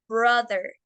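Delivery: BROTHER slowly, with a short open O. Shown as a demonstration. Teacher contrasting it with bro, short-O "brother". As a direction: keep the O in "brother" short, without a U glide. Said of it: "es una O corta".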